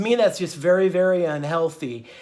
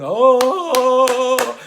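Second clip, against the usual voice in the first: 1 mock audience; 6 semitones higher, 7 dB louder than usual. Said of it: "they're going".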